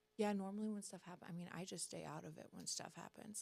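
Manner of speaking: hushed, very quiet mutter under the breath. Retelling what a man in line at the Plaid Pantry said: retelling a quiet mutter. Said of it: "he muttered it quietly".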